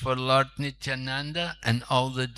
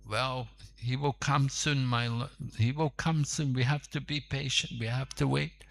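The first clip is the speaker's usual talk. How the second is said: soothing reply; 4 dB quieter than usual. Acted. Devotees soothe impatient lord.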